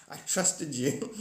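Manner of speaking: slow, mock-betrayed outburst with a laugh breaking in; betrayed Trinity. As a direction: play wounded betrayal, drawn out and hammed-up. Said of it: "Trinity's like".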